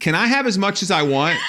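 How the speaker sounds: greedy laughing plea. Retold or imitated. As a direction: comedian mocking American appetite. Mocking American greed pitch.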